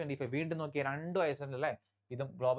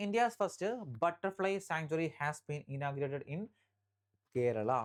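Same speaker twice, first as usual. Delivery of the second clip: very slow, word by word headline read; slow dictation; much slower than usual. Shown as a demonstration. Teacher dictating headline to exam students, very slow. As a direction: dictate it slowly so students can write. Reads headline slowly for notes.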